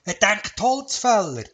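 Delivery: excited answer. Acted. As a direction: blurt it out in excitement. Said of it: "ganz aufgeregt zur Antwort gegeben".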